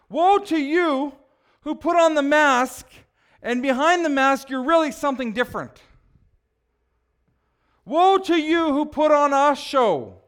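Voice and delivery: slow, loud, emphatic woe after woe; preaching Jesus' woes. Acted. Preacher voicing Jesus, loud and slow. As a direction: thunder each woe at the hypocrites.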